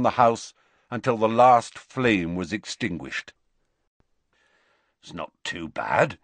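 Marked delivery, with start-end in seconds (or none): 5.0-6.2 hopeful. Acted. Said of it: "said Hagrid hopefully".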